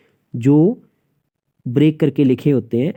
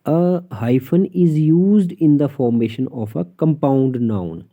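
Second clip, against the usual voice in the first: dictating a textbook rule; slow rule reading; much slower than usual. Shown as a demonstration. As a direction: read the rule out slowly, word by word. Reads English rule aloud slowly. (धीरे-धीरे नियम पढ़कर सुनाना)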